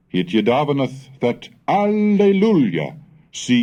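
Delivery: a playful, pleased turn of phrase; mild rejoicing. Acted. Gregorius punning on the king's name, mildly delighted. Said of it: "gamanod amid his wardom".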